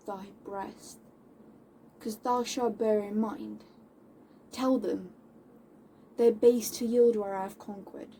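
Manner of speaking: controlled, defiant declamation with deliberate pauses; Moll. Acted. Moll giving the man her final word, controlled defiance. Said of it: "I'll be playing Moll".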